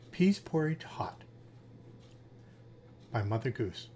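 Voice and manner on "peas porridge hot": whisper. Acted. Reading rhyme titles to listener.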